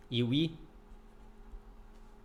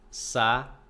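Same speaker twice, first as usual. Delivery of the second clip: syllable by syllable; 5 dB louder than usual. Shown as a demonstration. Teacher giving students another hiatus example, broken syllable by syllable. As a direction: split into separate syllables with long gaps. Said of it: "Um outro exemplo muito".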